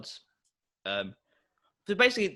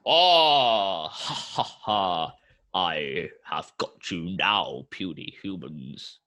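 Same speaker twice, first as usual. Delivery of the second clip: gloating god voice, low and slow; booming arrogant alien overlord; 4 semitones lower, slower than usual. Acted. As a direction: cackle down at puny humans. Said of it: "The voice of Poseidon rings".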